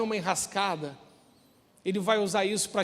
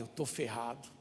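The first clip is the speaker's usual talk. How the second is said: "Eu tô ferrado", hushed and much softer; whispered dread; 6 semitones lower, 7 dB quieter than usual. Retold or imitated. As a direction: breathe it out like a scared kid. Kid dreading punishment, whispered. (sussurrando com medo: "Eu tô ferrado")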